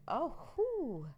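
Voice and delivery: high, smitten whoop; swooning. Acted. Fan reacting to a high country greeting, swooning. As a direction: let out a lovestruck whoop. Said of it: "I'd be like".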